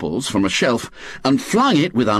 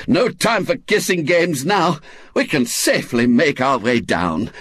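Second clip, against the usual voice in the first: higher, mock-commanding general's tone; a lightly voiced old lady leading her troops; brisk Aunt Jo; 5 semitones higher than usual. Aunt Jo tells the outlaws they may go down, mock triumphant.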